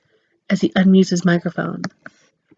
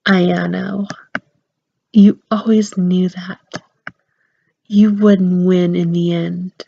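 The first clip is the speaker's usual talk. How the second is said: slow taunting villain; much slower than usual. Acted. Info-chan taunts Ayano.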